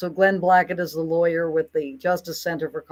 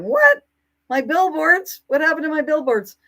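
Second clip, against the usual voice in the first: much higher, loud startled "What?"; retold alarmed disbelief, faster at the end; shocked disbelief; 9 semitones higher, 4 dB louder than usual. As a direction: replay the jolt of hearing the billboards are gone. Retold shock at missing billboards.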